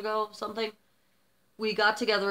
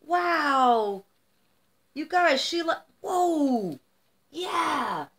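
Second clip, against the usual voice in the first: teary voice; 6 semitones higher, slower than usual. Real, not acted. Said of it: "now I am crying".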